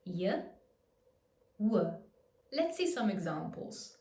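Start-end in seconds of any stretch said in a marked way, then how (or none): 0.0-0.4 isolated Y sound for weak I; Y glide. Shown as a demonstration. Teacher modelling for learners the weak I as Y. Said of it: "becomes more of a Y sound". 1.6-1.9 isolated W sound for weak U; W glide. Shown as a demonstration. Teacher modelling for learners the weak U as W. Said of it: "turns into a W sound".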